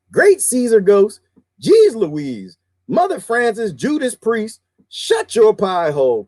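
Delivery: lightly mimicked relative's exclamations; high-pitched mock exasperation; talking like family. Host reeling off family's cuss substitutes, mock exasperated. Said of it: "I have family who talk like this".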